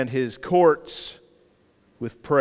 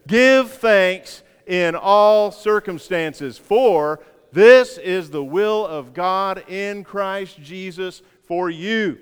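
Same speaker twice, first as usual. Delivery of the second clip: slow and louder, leading the congregation; unison recitation; 3 semitones higher, 3 dB louder, much slower than usual. Shown as a demonstration. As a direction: draw every word out for the church to follow. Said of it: "Let's say it together".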